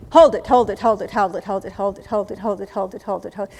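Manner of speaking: rhythmic chant, fading from loud; breath-hold count. Shown as a demonstration. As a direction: keep the hold going, gradually easing off.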